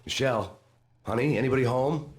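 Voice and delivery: calling out. Acted. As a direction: call out, growing worried. Calling out into a silent house.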